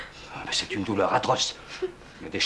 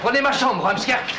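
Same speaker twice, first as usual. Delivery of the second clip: urgent; 11 semitones higher, 4 dB louder than usual. Acted. Urgent offer to suffering guest.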